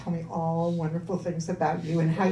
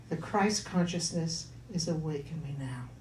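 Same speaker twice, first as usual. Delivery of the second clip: spoken affirmation; 3 semitones lower, 4 dB quieter than usual. Shown as a demonstration. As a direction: say it gently as a mantra. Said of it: "Can you say that with me".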